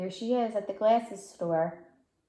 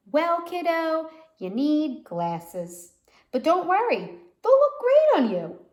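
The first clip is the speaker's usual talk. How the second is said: high, loud, bubbly reassurance; cheerful doctor; 8 semitones higher, 7 dB louder than usual. Acted. Doctor telling a child she needs glasses, bright cheerful reassurance. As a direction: cheer the kid up.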